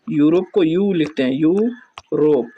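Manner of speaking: यूरोप stretched slowly, starting with a y sound. Shown as a demonstration. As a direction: draw out यूरोप to show the yu sound. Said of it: "उच्चारण पर ध्यान देना है". (यूरोप को धीरे-धीरे खींचकर, य की ध्वनि दिखाते हुए)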